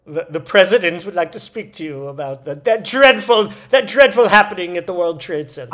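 stuffy hammed-up upper-crust announcement; mock patrician. Butler relaying the president's call, mock-formal dismay. Continuing the butler and governor skit.

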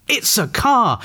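high-pitched storybook exclamation; exclaiming. A narrator's reading. Vera spots something approaching, exclaiming. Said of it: "exclaimed Vera".

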